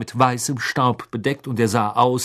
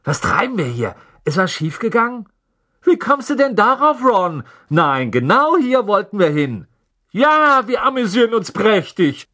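sarcastic; 9 semitones higher, 5 dB louder than usual. A narrator's reading. Twins' sarcastic banter in chimney.

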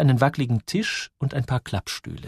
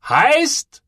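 much higher rising surprised echo; puzzled; 7 dB louder than usual. A narrator's reading. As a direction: toss the word back, baffled. Man puzzled by odd question. (verwundert nachgefragt)

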